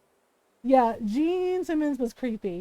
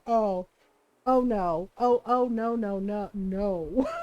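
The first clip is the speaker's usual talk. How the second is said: lower, dismayed string of oh no; horrified oh no; 5 semitones lower, much slower than usual. Retold or imitated. Host recoiling from the creep's line, low and dismayed. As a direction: back away in mock horror.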